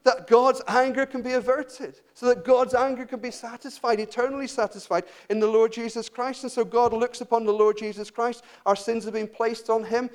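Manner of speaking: high-pitched, urgent preaching; impassioned preaching. Real, not acted.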